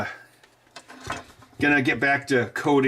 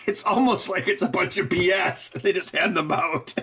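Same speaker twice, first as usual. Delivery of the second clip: higher voice broken up by laughs; laughing; 5 semitones higher than usual. Real, not acted. Joking about Oscars being handed out, laughing. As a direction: talk through amused laughter.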